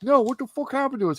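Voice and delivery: high-pitched mock indignation; indignant bewilderment. Drugged heroes answering Deadpool, indignant bewilderment. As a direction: demand an explanation.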